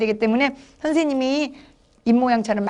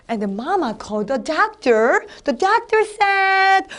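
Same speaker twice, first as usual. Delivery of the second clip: slow, drawn-out storybook narration; lively storytelling; 6 semitones higher, much slower than usual. Shown as a demonstration. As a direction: build it up slowly for small children. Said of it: "이렇게 실감나게 재밌게 해야지".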